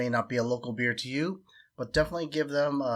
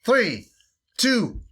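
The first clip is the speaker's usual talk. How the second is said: countdown; 9 semitones higher, 6 dB louder than usual. Real, not acted. Counting down the chug.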